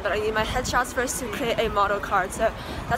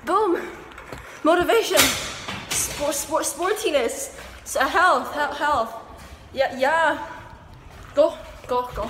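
higher, louder hype words; 4 semitones higher, 3 dB louder, slower than usual. Pretend. Cheering herself on for health, higher and louder. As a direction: pump yourself up like a coach.

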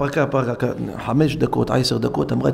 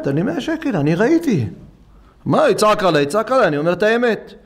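angry insistence; 7 semitones higher than usual. Retold or imitated. Customer insists angrily in retold quarrel.

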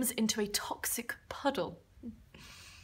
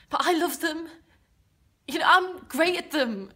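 higher, louder burst of self-assurance; insistent confidence; 6 semitones higher, 5 dB louder than usual. Acted. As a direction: push up brightly to convince them. Protests confidence about auditions.

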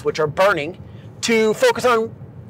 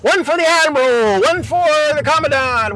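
mock screaming instructors; 5 semitones higher than usual. Instructors on the deck screaming at trainee, mock yell. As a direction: imitate instructors hollering, held back. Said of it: "just screaming at me".

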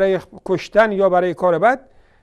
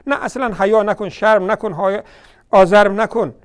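growing louder, sarcastic scolding; scolding rebuke; 7 dB louder than usual. Real, not acted. Preacher scolding the clerics, rising to a loud rebuke. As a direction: build from a jab to a loud rebuke.

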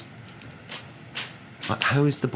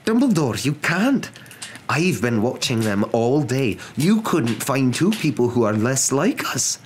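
high, loud, indignant protest; crying out in protest; 9 semitones higher, 4 dB louder than usual. A narrator's reading. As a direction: protest in horror, pitched high and emphatic. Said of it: "cried Professor McGonagall".

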